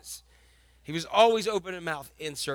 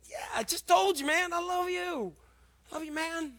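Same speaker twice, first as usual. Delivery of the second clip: Peter, exasperated; 8 semitones higher, 4 dB quieter than usual. Retold or imitated. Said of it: "Peter answering Jesus".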